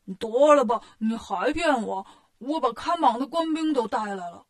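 loud first burst, then stretched accusation; indignant retort. Acted. Bajie rejects Wukong's excuse in front of soldiers, indignant retort. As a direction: cut off his excuse with mock outrage.

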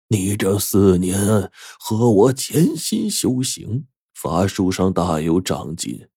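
slow, stern lecture, rising sharply at the end. Acted. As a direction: scold him slowly and gravely. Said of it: "油灯法师严厉地说道".

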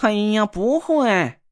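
slow, impatient brush-off. Acted. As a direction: wave him off, fed up. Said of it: "不耐烦地打断了我的话".

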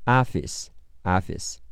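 "office" with an open American "ah" first vowel; American pronunciation. Shown as a demonstration. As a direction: say "office" as "AH-fiss". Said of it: "美式发音是啊".

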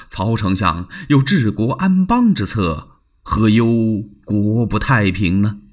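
smooth, insincere reassurance; evasive Liu Bei. Acted. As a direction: fob him off politely. Liu Bei voiced in story. (言不由衷地敷衍)

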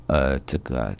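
hesitant stammering. Acted. 柳梦梅 questioned by 春香 about the dream, hesitant. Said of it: "别吞吞吐吐的".

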